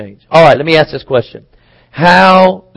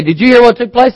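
eager gossip; 8 semitones higher than usual. Retold or imitated. Gossip quote acted.

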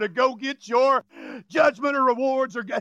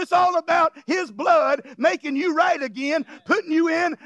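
preaching at full force; 3 semitones higher than usual. Acted. Preacher shouts to the congregation that God saved them. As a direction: hammer it home like a revival preacher.

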